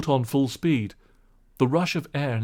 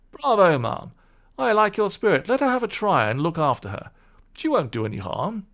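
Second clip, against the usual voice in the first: louder, higher cheering gentleman; hearty gentleman; 8 semitones higher, 5 dB louder than usual. Acted. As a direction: applaud her spirit.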